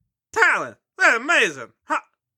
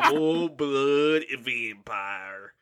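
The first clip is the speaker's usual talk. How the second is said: a hint of a grave vampire dad telling his tale; lightly voiced dramatic father; 8 semitones lower, 6 dB quieter, much slower than usual. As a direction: play the father spinning a solemn legend, softer at the end.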